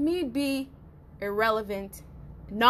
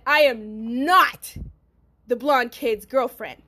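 slow, clipped, firm and loud; short, precise, loud; 3 dB louder, slower than usual. Retold or imitated. To the boyfriend's family, firm slow loud denial. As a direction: spell out each word so the whole block hears. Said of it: "I said it short, I said it precise, and I said it loud enough".

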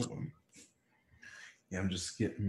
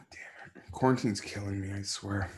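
whispered; 4 semitones lower, 7 dB quieter than usual. Real, not acted. Muttering while chewing.

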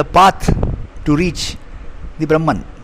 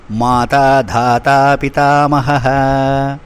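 slow, even chant of the shloka; Sanskrit verse recitation; 2 semitones lower than usual. Acted. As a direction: intone each word with reverence.

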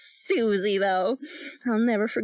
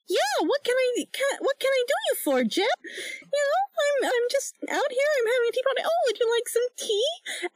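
much higher, sing-song cartoon girl; Betty Boop voice; 9 semitones higher than usual.

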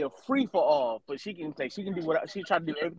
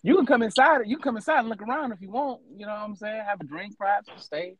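smooth come-on voice; mock seductive; 5 semitones higher, 6 dB louder than usual. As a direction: invite them in, playfully flirty. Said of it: "I put my sexy voice on too".

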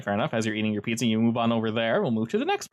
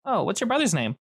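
put-on high child voice, much higher; startled little boy asking again; ten-year-old kid; 9 semitones higher than usual. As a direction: caught off guard, apologetic kid. GM voicing the kid.

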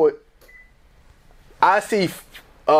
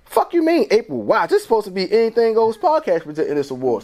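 indignant inner voice; 5 semitones higher than usual. Retold or imitated. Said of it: "I'm like".

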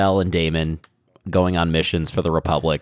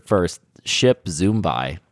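slow deadpan; much slower than usual. Shown as a demonstration. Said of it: "to be clear".

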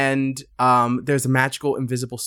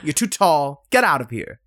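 higher, louder petty taunting; mock taunting; 5 semitones higher, 3 dB louder than usual. Hero mocks the villain Corypheus, high, loud and petty. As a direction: dismiss him like a bratty party host. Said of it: "And she's like".

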